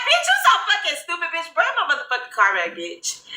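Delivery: play-angry rant at a prankster friend; mock angry yell. Retelling how she cussed out Daisha, mock angry. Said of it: "I'm like".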